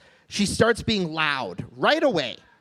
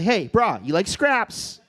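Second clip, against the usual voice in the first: Pidgin to his dog; slower than usual. Retold or imitated. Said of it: "one time I will talk Pidgin".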